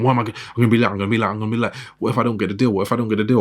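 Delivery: lightly acted panicked rush; mock panic. Woman stuck on the highway, late for a meeting, in mock panic. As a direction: pretend to fret about being late. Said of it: "you are panicked".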